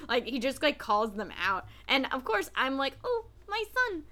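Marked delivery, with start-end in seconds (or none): 3.0-4.0 doting parent gush. Retold or imitated. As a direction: coo over your darling son. Gushing over favorite character as son.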